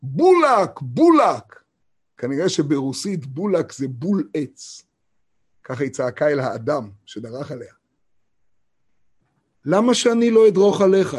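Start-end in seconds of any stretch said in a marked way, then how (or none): 0.0-1.6 higher, loud cry of the stone; loud stone yelling its word; stone screaming. Retold or imitated. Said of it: "והיא צעקה". 9.6-11.1 defiant retort. Retold or imitated. Defiant man retold in story.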